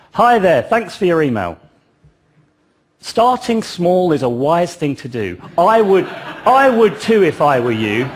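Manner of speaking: lightly hammed-up posh English accent. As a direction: read the email as a polite, posh English vendor. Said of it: "he had a posh English accent".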